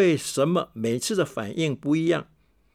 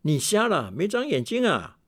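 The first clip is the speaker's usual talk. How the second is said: mock yell rising high at the end; a mild imitation of a stranger's angry yell; retold shout; 5 semitones higher than usual. A stranger yelling at the teacher who tripped him, mild mock yell. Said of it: "他在用相同的语气大叫：".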